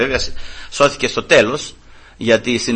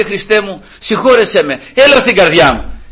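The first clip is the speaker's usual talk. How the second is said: raised hands, pleading prayer; father praying; 5 semitones higher, 3 dB louder than usual. Retold or imitated. Father in the car repeating the prayer, pleading. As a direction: plead to Christ with arms up. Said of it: "σηκώνει τα χέρια του και λέει".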